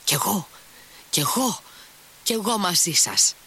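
high, eager cry while hopping along; gleeful shout. A narrator's reading. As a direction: beg to come, giddy and bouncing. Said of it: "φώναξε αυτός, αναπηδώντας, γελώντας εύθυμα".

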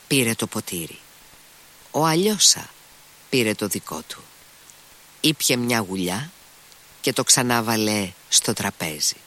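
usual speaking voice

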